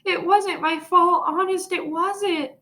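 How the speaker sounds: high, slow, upset protest; pleading. A narrator's reading. Sheila insisting Fudge's fall wasn't her fault, pleading. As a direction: plead your innocence. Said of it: "Sheila cried".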